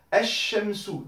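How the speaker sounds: "Esh Shamsu" with the shin held long; doubled shin. Shown as a demonstration. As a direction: insist on the shin, L silent. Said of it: "j'insiste bien sur le shin".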